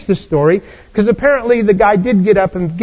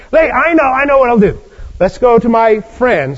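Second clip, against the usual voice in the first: sudden idea; 3 semitones higher than usual. Acted. Host gets an idea.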